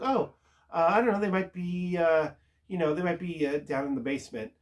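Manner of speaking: mock casual evasion. Agnes dodges Wanda asking about the kids, mock casual evasion. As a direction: play innocent, voice lifted, hedging.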